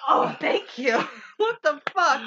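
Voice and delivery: half-crying through laughter; breaking up with laughter; laughing thanks. Real, not acted. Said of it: "And I'm like".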